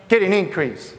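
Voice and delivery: a preacher's prompt for the crowd to say "increase"; call-and-response prompt on "increase"; call to repeat. Shown as a demonstration. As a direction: lead the congregation in a repeat phrase. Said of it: "Say an increase".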